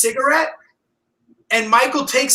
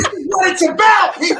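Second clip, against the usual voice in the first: amped-up shout; 8 semitones higher than usual. Real, not acted. Host hyping up co-host with a rallying shout. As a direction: pump up the room with a rallying cry. Hyped-up rant about manhood.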